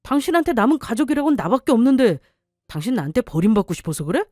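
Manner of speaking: lightly voiced husband, coldly threatening; a hint of a bullying husband pressing his wife; husband voiced lightly, cold threat.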